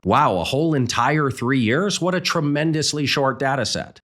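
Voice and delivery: dry mock amazement; sarcastic. Real, not acted. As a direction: fake awe, dripping with sarcasm. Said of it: "I'm being pretty sarcastic here".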